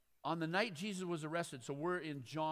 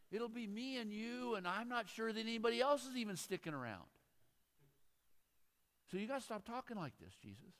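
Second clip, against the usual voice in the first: Peter; 4 semitones higher than usual. Acted. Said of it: "began to reprimand him for saying such things".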